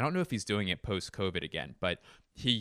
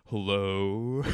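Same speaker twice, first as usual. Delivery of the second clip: Jeff Goldblum; 2 semitones lower than usual. Retold or imitated. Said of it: "and he goes".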